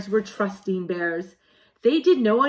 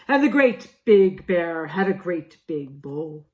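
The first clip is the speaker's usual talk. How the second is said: silly big bear voice; 3 semitones lower, 4 dB louder than usual. Acted. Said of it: "in a silly voice".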